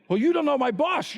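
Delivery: laughing mock excuse. Imitating congregant's excuse.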